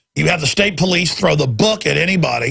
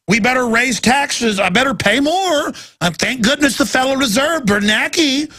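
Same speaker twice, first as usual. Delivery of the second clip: gullible husband; 4 semitones higher than usual. Pretend. Voices a gullible husband to wife.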